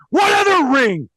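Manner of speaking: incredulous ranting; exasperated. Real, not acted. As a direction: scoff at the silly phrase. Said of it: "exasperated mock outrage".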